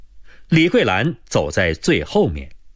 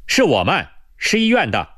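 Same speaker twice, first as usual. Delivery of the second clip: raised, high-pitched reply; loud answer; 7 semitones higher than usual. A narrator's reading. Nurse answering the distant sentry, calling out loudly. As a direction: call back promptly to be heard. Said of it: "马上大声回答".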